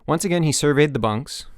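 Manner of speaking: ordinary delivery, nothing marked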